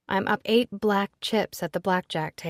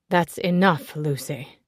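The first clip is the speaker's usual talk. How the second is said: stern; 3 semitones lower, 4 dB louder than usual. Acted. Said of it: "Nicholas says sternly, in that deep, authoritarian voice".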